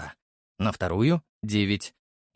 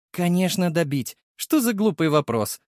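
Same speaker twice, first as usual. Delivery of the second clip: smirking sarcasm; 6 semitones higher than usual. Acted. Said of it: "усмехнулся я".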